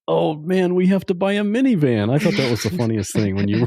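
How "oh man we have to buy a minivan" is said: high-pitched teasing imitation of worry; mock dismay. Host teasing guest about her overthinking, mock dismay. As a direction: playfully mimic an overthinker fretting. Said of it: "and you're like".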